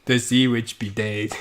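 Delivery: put-on a light go at a Jamaican accent; half-serious Jamaican lilt; mock Jamaican accent. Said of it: "a fucking Jamaican accent".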